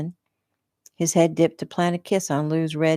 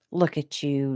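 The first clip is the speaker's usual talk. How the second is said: disgust. Acted. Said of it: "disgust dripping from her voice".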